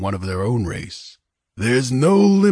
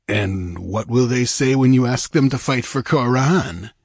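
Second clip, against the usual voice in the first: sardonic; 4 semitones higher than usual. Acted. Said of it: "asked Olgerd sardonically".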